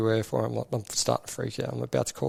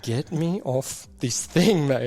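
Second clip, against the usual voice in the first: slow, raised, pleading; urgent plea; 3 semitones higher, 4 dB louder, much slower than usual. Retold or imitated. Officer stuck on a walking camel, slow urgent plea. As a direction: beg to be got down.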